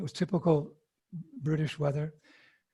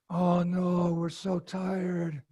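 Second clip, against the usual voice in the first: mock weary whine; much slower than usual. Devotees refusing to help.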